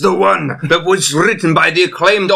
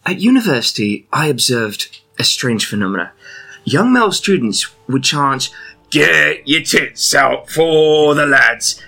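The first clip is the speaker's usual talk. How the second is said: put-on Surrey English accent. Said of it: "in an English accent from Surrey".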